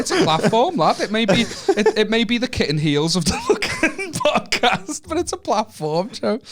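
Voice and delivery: high, drawn-out mock pompous voice; high camp insistence, slowed; mock grandiose insistence. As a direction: lay it on thick like a proud podcaster. Mock-grand defence of platform.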